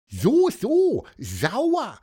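high, loud squeaky echo; inquisitive little bird. A narrator's reading. Pieper repeats the boy's word, high nosy chirp. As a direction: echo it knowingly in a tiny high voice.

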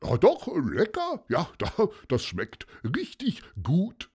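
high, delighted Paulus praising the food; happy munching. Acted. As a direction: Paulus pleased with his lentils, bright and high. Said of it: "mampfte los und freute sich".

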